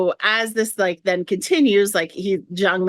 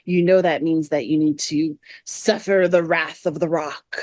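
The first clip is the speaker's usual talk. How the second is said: a hint of a solemn, grave god, lightly done; a lightly voiced mock-solemn god's warning; Zhongli voice; 2 semitones lower than usual. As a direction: play the stern god's warning without pushing it. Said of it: "in a voice I can't even try to make".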